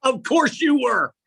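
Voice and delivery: high, loud, drawn-out delighted reaction; laughing. Real, not acted. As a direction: exclaim it slowly through big laughter. Laughing reaction to daughter's reply.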